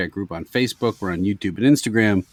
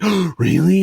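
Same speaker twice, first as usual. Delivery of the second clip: imitating a shocked gasp, high and louder; mock-astonished, pitched way up; gullible surprise; 9 semitones higher, 4 dB louder than usual. Husband imitating his gullible wife falling for a death hoax, surprised. Retelling the wife's gullible reaction.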